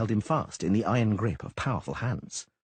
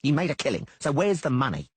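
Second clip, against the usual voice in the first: angry yell; 6 semitones higher, 3 dB louder than usual. A narrator's reading. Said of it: "Dainty yelled, flushing red".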